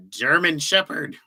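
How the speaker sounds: slow, lightly put-on German accent. Still trying German for chat, a slow mock German accent. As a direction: draw out German Shepherd in mock German. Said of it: "I don't know any German words".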